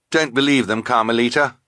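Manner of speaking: high, loud warning; urgent boy. Acted. Quigley warning Carmelita against the villains, urgent. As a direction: warn her urgently.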